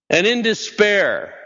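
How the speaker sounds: high, slow, overdone gasp of despair; mock despair. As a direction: ham up the despair, then laugh it off. Dramatic reading of bleak verse.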